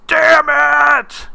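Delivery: high, loud yell of frustration; mock scream. Daniel crumpling the note, yelling in frustration. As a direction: bellow it like you've been had. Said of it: "crunches the note up and screams".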